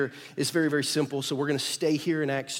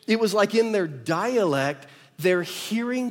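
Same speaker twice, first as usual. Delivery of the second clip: rising excitement; 4 semitones higher, 4 dB louder than usual. Real, not acted. Preacher building to emphasis.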